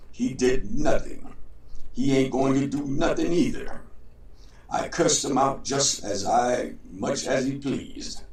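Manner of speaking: a hint of a proud trickster showing off; boastful John.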